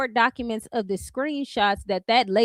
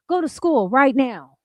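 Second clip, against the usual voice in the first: loud hammed-up TV ad pitch, getting louder; mock commercial voice; 4 semitones higher, 6 dB louder than usual. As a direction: scold like a cheesy college commercial. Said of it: "those commercials y'all used to watch".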